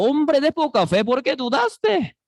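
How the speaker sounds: Jesus scolding Peter, sharp and stern; harsh scolding. Shown as a demonstration. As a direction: rebuke Peter hard. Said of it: "le regañó duro a Pedro".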